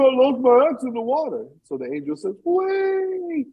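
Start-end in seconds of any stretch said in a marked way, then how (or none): 0.0-1.5 fake crying. Second woodcutter pretends to cry. 2.4-3.5 much higher, drawn-out angel call. Acted. Angel dives again.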